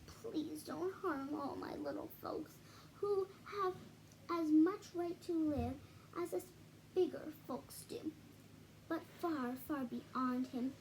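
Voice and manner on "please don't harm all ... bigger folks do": pleading. Acted. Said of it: "and begged".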